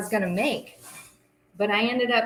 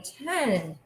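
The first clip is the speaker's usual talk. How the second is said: counting down; 4 semitones higher, much slower than usual. Shown as a demonstration. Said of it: "count down with me".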